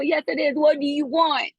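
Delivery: lightly hammed Noah; Ryan Gosling as Noah. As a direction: push back like the pleading movie hero. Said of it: "My best Ryan Gosling".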